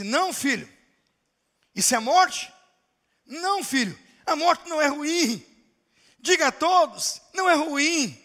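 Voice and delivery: a preacher voicing a joyful dying man; rapturous dying father. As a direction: lift the pitch as if seeing heaven. Dying Moody comforts son.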